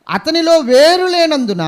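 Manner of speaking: loud and slow on వేరు, drawn out వేరు లేనందున; preacher stressing వేరు లేనందున to the church. Acted. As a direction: lean hard on వేరు లేనందున. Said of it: "slow loud emphasis".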